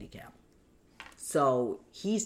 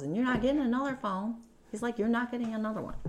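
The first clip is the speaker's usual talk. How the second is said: retold angry refusal; 10 semitones higher, much faster than usual. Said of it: "And he got angry".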